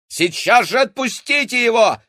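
high, loud angry shout. A narrator's reading. Boy rushing the giantess, shouting. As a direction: yell at her to let go. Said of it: "крикнул Максим".

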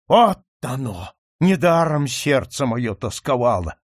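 wild shouting. Acted. Count raves wildly at his own folly, loud outcry. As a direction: rave in despair, beating his head. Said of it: "дико закричал граф".

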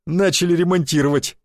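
loud, roaring joke; guffawing. Acted. Shishakov joking to his drinking mates, loud guffaw. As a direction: cackle at the innuendo. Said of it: "загоготал Шишаков".

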